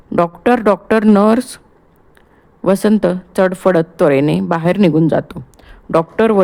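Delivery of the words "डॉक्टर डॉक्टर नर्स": high calls for the doctor and nurse; calling out. Acted. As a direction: cry out for help. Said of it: "ओरडून". (ओरडून हाक)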